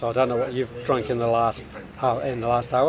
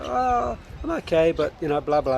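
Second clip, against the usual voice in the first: mimicking vague reply; 5 semitones higher than usual. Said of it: "And they go".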